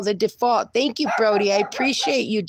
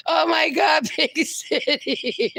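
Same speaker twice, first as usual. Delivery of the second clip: excited shout; 6 semitones higher, slower than usual. Real, not acted. Host thrilled to greet the raiders, shouting happily. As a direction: shout with joy, then laugh the name out. Stream gets raided by Big City.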